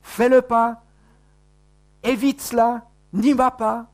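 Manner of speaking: high urgent warning voice; urgent inner warning. Retold or imitated. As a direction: plead like a conscience holding you back. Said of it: "quelque chose qui nous dit".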